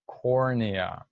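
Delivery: cornea said slowly, drawn out; pronunciation model. Shown as a demonstration. Teacher models cornea for pupils to follow along, slow pronunciation model. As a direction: sound out cornea slowly and clearly. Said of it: "learn how to pronounce these words".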